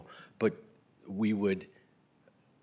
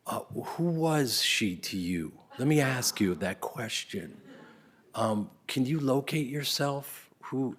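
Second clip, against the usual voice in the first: soft gentle note; 4 semitones higher, slower than usual. Retold or imitated. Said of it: "It was very soft and beautiful".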